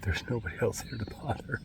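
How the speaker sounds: whispering. Real, not acted. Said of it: "I don't know why I'm whispering".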